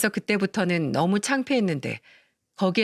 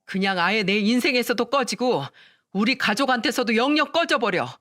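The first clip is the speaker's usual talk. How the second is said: angry outburst. Acted. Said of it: "동서에게 막 화를 냈거든요".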